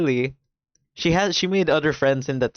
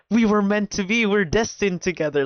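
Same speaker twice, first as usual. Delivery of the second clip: high, hammed-up lovestruck plea; dramatic confession; 7 semitones higher than usual. Mocking the boy confessing in the park, dramatic. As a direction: ham up a kid's grand declaration. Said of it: "he's just dramatic".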